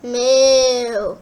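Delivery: long loud cow moo. A narrator's reading. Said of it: "a loud moo".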